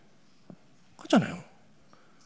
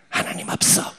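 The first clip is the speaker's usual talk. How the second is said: mock atheist. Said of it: "이러면서".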